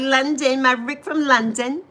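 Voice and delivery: playful mock British accent; lightly faked British accent; pretend British accent. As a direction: put on a light London accent. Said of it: "but I pretend".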